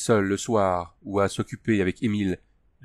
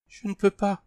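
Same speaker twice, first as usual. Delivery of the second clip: frightened refusal; 10 semitones higher than usual. A narrator's reading. Tania refusing in fear.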